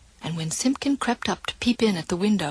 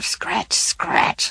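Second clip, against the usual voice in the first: scratching cat. Acted. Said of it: "scuffled Simpkin".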